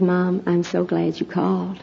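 softly through tears. Retold or imitated. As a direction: speak gently as if holding back tears. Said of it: "I realized he was crying".

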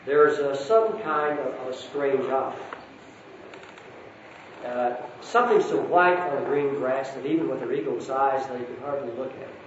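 a lightly voiced storybook reading with gentle lifts for each character; story narration. A narrator's reading. Speaker reading Narnia to the congregation, storytelling voice. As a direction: read it aloud like a bedtime story to a hall.

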